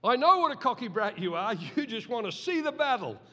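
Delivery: hammed-up sibling taunt; big brother sneer. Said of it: "I got a big brother like this".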